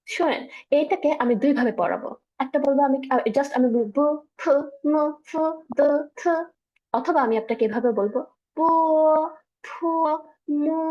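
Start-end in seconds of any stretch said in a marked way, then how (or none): 4.0-6.3 each syllable stretched long and clear; drawn out. Shown as a demonstration. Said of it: "একটু বড় করে পড়া". 8.6-10.8 each syllable cut short and quick; short and clipped. Shown as a demonstration. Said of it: "just একটু সংক্ষেপে পড়া".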